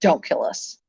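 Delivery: breathless whisper of dread; hushed frightened don't kill us; whispered plea. Retold or imitated. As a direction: whisper it as the truck looms. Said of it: "she said".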